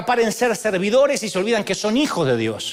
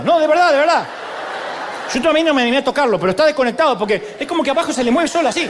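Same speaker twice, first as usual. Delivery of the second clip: entre risas; 5 semitones higher, much faster than usual. Real, not acted. Burla divertida del bailarín.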